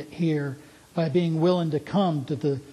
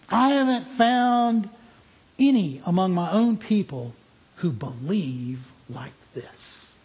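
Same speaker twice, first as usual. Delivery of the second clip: marveling Jesus; 4 semitones higher than usual. Acted.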